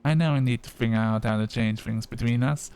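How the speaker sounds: lightly voiced young Black woman accent; a touch of young Black woman accent. Customer asking Sunny Wolf for an oil, young Black woman accent. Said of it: "black woman accent".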